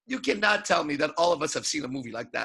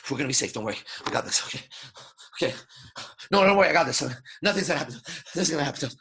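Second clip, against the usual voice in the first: nervous reassurance; much faster than usual. Shown as a demonstration. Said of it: "there's a sound to protection and safety".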